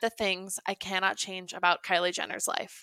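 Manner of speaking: solemn mock prayer, trailing to a hush; a hint of a pious prayer voice; mock serenity prayer. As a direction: pray it with fake reverence. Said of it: "This is my new serenity prayer".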